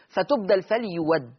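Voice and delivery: فليود said slowly with a waw, no hamza. Shown as a demonstration. Teacher demonstrates the ibdal reading of فليود, slow. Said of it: "والحرف اللي قبلها مضموم".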